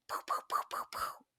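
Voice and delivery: whispered pew pew shots; unvoiced finger-gun pew pews; pew pew sounds. Miming shooting at problems for a friend, whispered pew pews.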